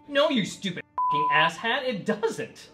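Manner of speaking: angry. Acted. Ranting at imagined student.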